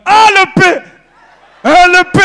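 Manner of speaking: high, loud mock local cry; hammed-up high excited local; mock Bakongo local. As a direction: shout it like a proud neighbour.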